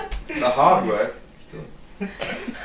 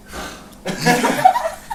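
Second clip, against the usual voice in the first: high squeaky animal squeal; beaver noise. Pretend. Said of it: "No, it was a beaver".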